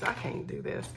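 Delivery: breathy whisper to herself; whispered aside. Real, not acted. Vlogger giving up on a fiddly task, whispered. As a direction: whisper it under your breath. Frustrated with setting up bowl.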